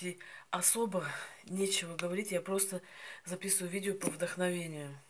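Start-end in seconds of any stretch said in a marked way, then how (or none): 1.4-5.0 chewing while talking; biting berries off stem; mouth full of berries. Real, not acted. Seen 3: holds currants, bites berries off stem, chews while talking.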